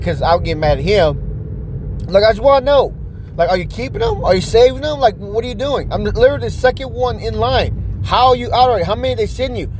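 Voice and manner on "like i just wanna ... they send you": mildly heated customer demanding answers; pissed off. Retold or imitated. Second-in-line customer confronts store clerk, mildly pissed. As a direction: press the clerk in rising irritation. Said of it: "so now I'm getting pissed".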